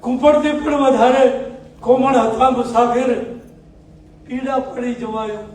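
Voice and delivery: measured, sung-through poetic recital with pauses between half-lines; ghazal recitation. Acted. Poet reciting his ghazal to a mushaira audience, declaiming.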